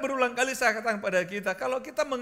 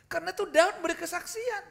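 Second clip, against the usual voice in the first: preaching at full force; 8 semitones higher, 7 dB louder than usual. Acted. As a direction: proclaim it to the congregation.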